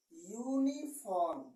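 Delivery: यूनिफॉर्म said slowly, starting yu; slow demo word. Shown as a demonstration. Teacher gives a second example word. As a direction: draw out यूनिफॉर्म clearly. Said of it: "इसका उच्चारण करेंगे".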